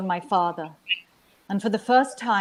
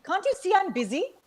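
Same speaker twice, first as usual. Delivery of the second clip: gruff reply; 8 semitones higher, 3 dB louder than usual. A narrator's reading. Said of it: "she replied gruffly".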